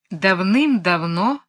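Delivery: slow, musing fairy-tale opening; pensive storyteller tone. A narrator's reading. Mary Poppins beginning the cow's tale, pensive storyteller. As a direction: draw it out like a thoughtful storyteller. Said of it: "задумчивым тоном сказочника".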